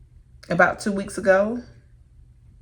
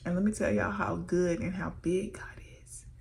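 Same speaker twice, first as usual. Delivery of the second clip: tearful; 6 dB quieter than usual. Real, not acted. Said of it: "I'm fighting back tears".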